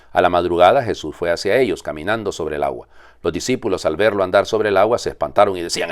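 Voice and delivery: measured liturgical reading voice; Gospel reading. Acted. Priest reading the Gospel at Mass, solemn proclamation.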